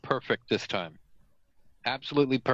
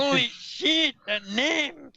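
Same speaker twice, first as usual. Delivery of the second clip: excited; 14 semitones higher, slower than usual. Real, not acted. Excited outburst.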